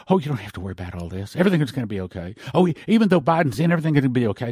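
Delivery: fast, breezy mock reassurance; mocking false shepherds. Preacher mocking shepherds who soothe the flock, fast breezy mock. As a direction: rattle it off like a careless shepherd. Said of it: "the shepherds that say".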